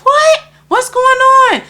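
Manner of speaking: high-pitched startled questions; retold astonishment. Narrator replays her shock at friend's urging, astonished.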